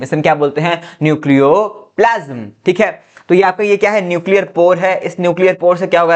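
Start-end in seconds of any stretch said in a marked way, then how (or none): 1.0-2.5 slow, drawn-out repeat of a key term; slow dictation. Shown as a demonstration. Teacher repeats the new term for students, slow dictation. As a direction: stretch the term out slowly.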